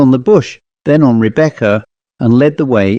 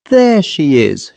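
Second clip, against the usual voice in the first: trembling exultant; 4 semitones higher, slower than usual. Acted. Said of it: "she declared in a trembling, exultant voice".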